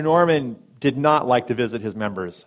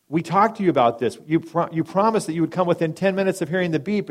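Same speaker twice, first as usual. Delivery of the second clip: frantic nurse; 6 semitones higher, 4 dB louder than usual. Retold or imitated. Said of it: "the lady is just frantic".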